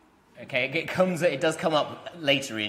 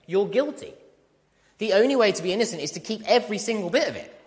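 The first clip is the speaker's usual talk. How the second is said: much higher and louder, pressing the point; emphatic preaching; 9 semitones higher, 4 dB louder than usual. Acted. Preacher to his church, pressing hard and loud. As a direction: drive it home with rising force.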